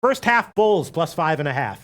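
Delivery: going slow. Real, not acted. Host reads betting picks to co-host so he can process, slow. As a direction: take it slowly, spacing out the pick. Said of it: "I'll go slow".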